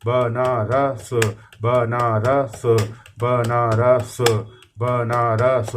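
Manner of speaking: each बनारस drawn out very slowly, word by word; slow dictation. Shown as a demonstration. Typing teacher dictating a word to students, slowly. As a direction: spell बनारस out slowly as you type it. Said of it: "हाथ मेरे देखिएगा".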